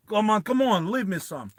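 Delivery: mildly hammed-up pleading over a drink; pleading drinker. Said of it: "He's like".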